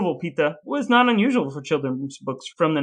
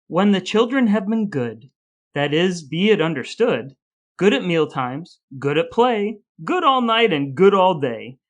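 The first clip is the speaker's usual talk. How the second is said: reading verse aloud; 2 semitones higher, 3 dB louder than usual. Acted. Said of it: "here's what Heinrich Hoffmann said".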